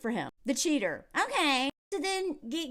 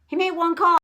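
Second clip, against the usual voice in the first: He made one call said louder, higher and pushed; louder repeat; 4 semitones higher, 6 dB louder than usual. Real, not acted.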